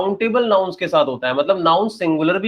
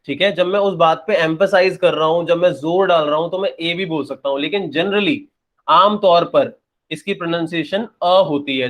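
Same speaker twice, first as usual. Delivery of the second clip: usual speaking voice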